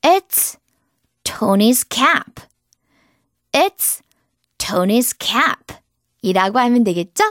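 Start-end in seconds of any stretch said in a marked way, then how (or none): 0.0-2.4 very slow, clear example; slow drill. Shown as a demonstration. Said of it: "example drill". 3.5-5.8 very slow, clear example; slow drill. Shown as a demonstration. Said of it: "example drill".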